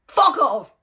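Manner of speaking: loud high yell; retold yell. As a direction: snap it back from behind the door. Resident screams again.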